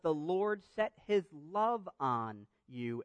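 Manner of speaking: "love" drawn out slowly; slow down and dwell on "love"; measured reading that singles out "love"; stress on love. Shown as a demonstration. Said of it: "I'll put some emphasis on the word".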